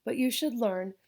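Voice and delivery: lightly voiced Spanish-accented grandma; a hint of a thick Spanish accent, teasing. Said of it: "With her thick accent".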